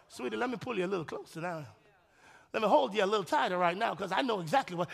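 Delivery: lightly voiced caring husband; tender husband. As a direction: murmur it to your wife like you're holding her close. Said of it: "you know".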